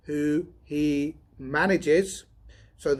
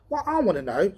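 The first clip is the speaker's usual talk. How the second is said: higher, louder savage burst; furious outburst; sudden savagery; 7 semitones higher, 4 dB louder, faster than usual. Acted. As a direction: bite into it angrily. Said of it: "said Donovan in sudden savagery".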